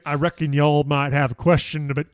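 hammed-up bad Southern accent; clumsy mock-Southern voice; terrible Southern accent. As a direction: imitate a badly done Southern accent. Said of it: "in a terrible Southern accent".

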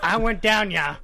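mild Southern twang on a short phrase; a hint of Southern; attempted Southern accent. Shown as a demonstration. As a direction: try a Southern accent, only lightly. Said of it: "want me to say in Southern".

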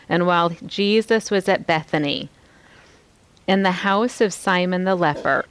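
slow, unhurried reading with room to breathe; slow, breathing reading. Shown as a demonstration. Preacher reading scripture slowly to her congregation. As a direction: let each phrase breathe. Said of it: "do you feel just the breath in that sentence".

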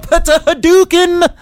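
high, slow, drawn-out video game battle cry; mock fireball shout. Big Brother storyteller mimicking a fighting game move, long high shout.

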